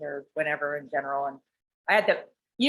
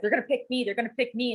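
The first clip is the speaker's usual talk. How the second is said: mildly anxious, higher-pitched retold thought; retold nervousness; 5 semitones higher, faster than usual. Telling how she waited to be picked, nervous. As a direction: run it together like mock jittery inner chatter. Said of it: "I'm, like, nervous".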